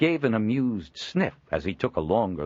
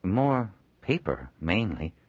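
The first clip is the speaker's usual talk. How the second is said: hesitant and slow; unsure, drawn-out request; tentative; 3 semitones higher, slower than usual. Acted. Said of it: "in a tentative tone".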